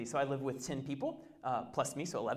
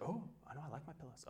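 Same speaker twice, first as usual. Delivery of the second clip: put-on toddler voice; 15 dB quieter, much faster than usual. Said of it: "And Shiloh's like".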